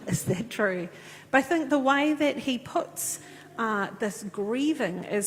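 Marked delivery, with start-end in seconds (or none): 0.1-0.9 "Is that true?" a bit louder, falling, with a chuckle; amused rhetorical question. Real, not acted. Preacher to congregation after checking the source, amused. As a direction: toss off "Is that true?" as a knowing joke. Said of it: "It's always good to check your sources".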